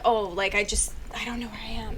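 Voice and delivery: soft, pretend-confused murmur; feigned lost. Showing how she fakes being lost for guys, softly feigned confusion. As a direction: play clueless, trailing right down. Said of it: "make it seem like I'm like".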